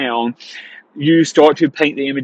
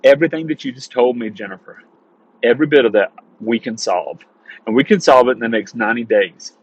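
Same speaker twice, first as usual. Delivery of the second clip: dominant authority; 2 semitones lower than usual. Shown as a demonstration. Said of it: "you go into dominant authority".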